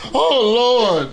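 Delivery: high, loud mock wail of Oh Lord; lady in church crying out to the Lord. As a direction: ham up a lady catching the Holy Ghost. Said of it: "she was like".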